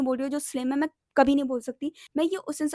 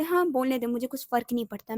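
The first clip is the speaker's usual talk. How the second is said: feigned indifference. Retold or imitated. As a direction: brush it off as if unbothered. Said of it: "ऐसा pretend करती थी कि मुझे कुछ फ़र्क नहीं पड़ता". (बेपरवाह होने का दिखावा)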